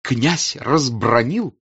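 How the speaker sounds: Разбранил slow, with a throaty French r; French burred r. A narrator's reading. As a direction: savour the r in Разбранил, rolled in the throat. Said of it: "особенно грассируя и с удовольствием слушая себя".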